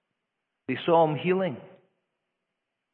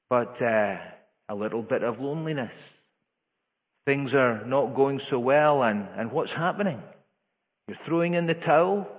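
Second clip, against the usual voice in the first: louder, reproachful lecturing tone; mock scolding; 4 dB louder than usual. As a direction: play a stern, condescending rebuke. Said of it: "did Christ speak like that?".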